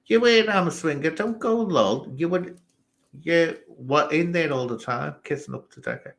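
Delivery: high, quick teasing accusation; mock accusing chatter. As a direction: needle the viewer in a sing-song jeer. Mocking a chat accuser.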